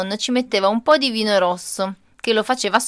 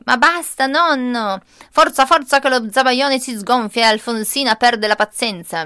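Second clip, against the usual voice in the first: protesting; 3 semitones higher, 5 dB louder than usual. Retold or imitated. Child protesting loudly.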